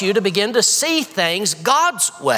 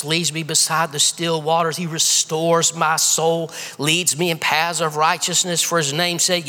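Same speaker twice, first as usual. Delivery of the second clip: calm, measured reading of the psalm; scripture reading. Acted. Preacher reads Psalm 23 to the church, calm and measured.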